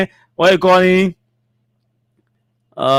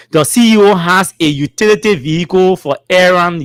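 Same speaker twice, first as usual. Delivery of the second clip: measured read-aloud; formal statement reading. Acted. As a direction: read each phrase out deliberately.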